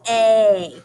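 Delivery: A said slowly as its letter name; long a sound. Shown as a demonstration. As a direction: draw out the name A. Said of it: "long A says its name".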